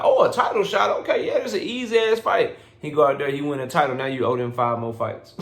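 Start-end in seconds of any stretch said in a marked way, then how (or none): 0.0-2.6 voicing Keyshawn Davis. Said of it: "Keyshawn Davis like".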